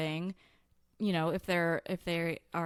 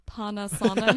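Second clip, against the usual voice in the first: Panasonic in a strong Chicago accent, flat open vowels; 9 dB louder than usual. Real, not acted. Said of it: "the Chicago accent on full display".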